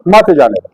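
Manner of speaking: "मत जाने दो" as one falling phrase; phrase after the pause. Shown as a demonstration. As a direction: after a short stop, run "मत" straight into "जाने दो". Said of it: "थोड़ी देर रुके जी".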